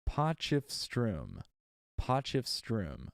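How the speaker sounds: "Potchefstroom" said slowly, the American way, POTCH-ef-strum; American pronunciation. Shown as a demonstration. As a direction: copy the app's American reading of "Potchefstroom". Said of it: "That's apparently the Am-, American pronunciation".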